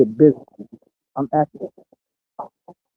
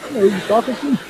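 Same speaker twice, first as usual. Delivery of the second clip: mock challenge; 9 semitones higher than usual. Mock confrontation, laughing.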